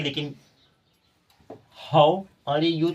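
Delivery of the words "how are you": "How are you?" dragged out very slowly and louder, each word read as spelled; wrong spelling-style reading. Shown as a demonstration. Teacher shows students the wrong way, very slow and louder. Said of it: "आप ऐसे पढ़ेंगे".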